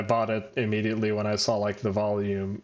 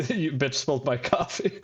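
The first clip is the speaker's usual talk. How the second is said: laughing quote; 3 semitones higher than usual. Retold or imitated. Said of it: "Oh, like".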